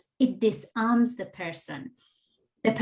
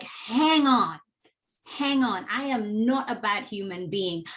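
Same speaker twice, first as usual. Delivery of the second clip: defensive. Retold or imitated. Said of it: "you become defensive".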